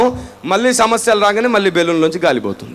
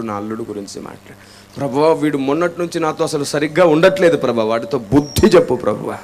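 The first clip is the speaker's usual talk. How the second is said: whiny selfish prayer; 8 semitones lower than usual. Retold or imitated. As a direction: whine like a self-pitying believer. Mocking a self-centred whining prayer.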